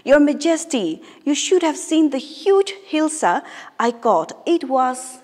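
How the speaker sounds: a courtier bursting to brag to his king; very excited. Acted. Courtier boasting to the king about his catch, excitedly. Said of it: "saying in a very excited manner".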